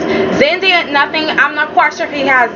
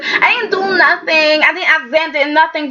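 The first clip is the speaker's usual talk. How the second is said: mock innocence; 3 semitones higher than usual. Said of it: "she's acting as if".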